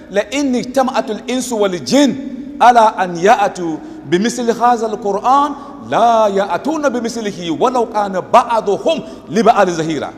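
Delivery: brisk Arabic scripture quotation; Quran recitation. Acted. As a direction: recite the verse fluently in Arabic.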